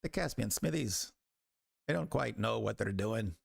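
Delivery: lilting smith sizing up rival work; opinionated village smith. Acted. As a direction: appraise it like a seasoned tradesman. Game master plays the smith.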